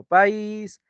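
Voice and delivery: drawn-out vowels; slow, drawn-out spelling-bee delivery; slow example words. Shown as a demonstration. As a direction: stretch each word slowly. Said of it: "Acá también tienes".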